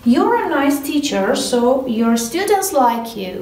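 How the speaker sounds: slow, careful model sentence; slow example reading. Shown as a demonstration. Teacher reading the whole example to students, slowly. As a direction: read it slowly and clearly. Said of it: "reading full example".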